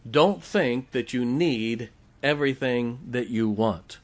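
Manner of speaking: slow and deliberate, pausing between phrases; measured warning, phrase by phrase; slow, emphatic restatement. Real, not acted. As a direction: spell the point out slowly. Restates the point slowly for emphasis.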